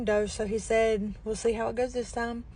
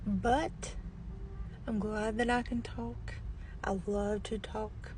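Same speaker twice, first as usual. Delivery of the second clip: barely audible; 3 dB quieter than usual. Real, not acted. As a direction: voice fading, can't push it louder. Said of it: "This is as loud as I can talk".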